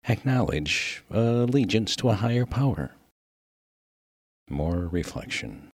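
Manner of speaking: lightly voiced formal, careful minister. Minister questioning a miner about the deceased, mildly formal. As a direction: pick through big words with polite hesitation.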